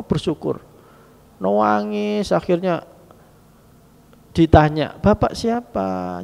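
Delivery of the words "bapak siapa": higher, slow, hushed asking; pleading young man. Acted. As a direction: beg the stranger to say who he is. Son asks the stranger.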